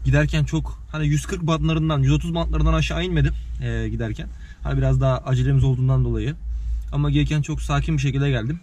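talking around a candy in the mouth; words shaped around a sweet in the mouth. Real, not acted. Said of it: "ağzımda şeker var".

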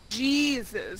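Jesus with an English J; English pronunciation. Shown as a demonstration. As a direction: say Jesus as JEE-zus, low and soft. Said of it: "How do you say it in English?".

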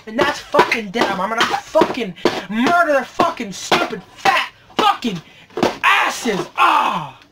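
angry rant ending in an exasperated cry; pissed-off ranting. Real, not acted. Collector rants about whoever shipped his damaged package, pissed off. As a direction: spit out each swear word in frustration. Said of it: "a lot pissed when I find".

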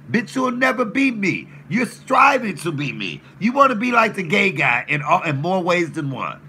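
loud heated taunt, rising high; angry rant. Real, not acted. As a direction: yell the insult at him.

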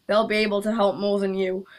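hushed aside, no voice at all; whisper. Acted. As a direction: whisper it behind your hand. Unvoiced aside.

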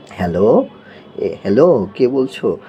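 role-played caller asking who is there; pretend phone greeting. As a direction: call out hello as if on the phone. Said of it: "টেলিফোনে কথা বলেন". (ফোনে hello বলার অভিনয়)

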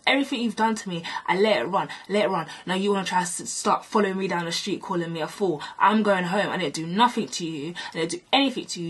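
retold indignant rant; heated telling-off replayed; going on and on. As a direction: rattle off your grievances, pressing on without stopping. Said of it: "I was literally going on and on".

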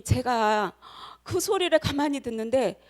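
normal talking voice

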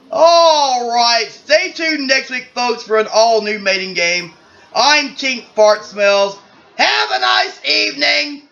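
drawn-out, projected sign-off; game-show host. Acted. Host Tink closing the mating game, stretched presenter delivery. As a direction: sign off slowly like a showy host.

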